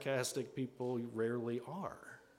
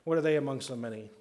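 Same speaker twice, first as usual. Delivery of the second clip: mildly dismissive self-doubt; half-hearted, giving-up skepticism; selling oneself short. Acted. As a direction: wave your own idea away. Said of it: "then they sell themselves short".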